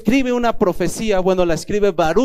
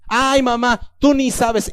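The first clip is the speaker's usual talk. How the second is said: put-on a higher, sulky teen brushing mom off; whiny teenager; 5 semitones higher, slower than usual. Child talking back to his mother, whiny and higher. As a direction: play the kid who won't admit it.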